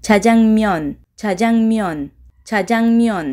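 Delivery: "Чаҷангмиён" evenly spoken, falling at the end; pronunciation demo. Shown as a demonstration. Teacher has learners pronounce together, "Чаҷангмиён" modelled evenly. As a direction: model "Чаҷангмиён" three times for repeating. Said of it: "Якҷоя талаффуз мекунем".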